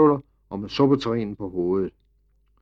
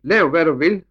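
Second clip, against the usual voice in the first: higher, louder shout; shouting back; 6 semitones higher, 7 dB louder than usual. A narrator's reading. Mother shouting back to the maid from the cart, high and loud. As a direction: fling it back as the cart rolls off. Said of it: "råbte Emils mor".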